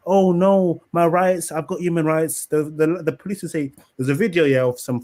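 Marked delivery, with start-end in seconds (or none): 0.1-2.5 whiny mock complaint. Mocking a foreigner crying about his rights, in a slow higher whine. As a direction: ham up a pampered tourist's wail.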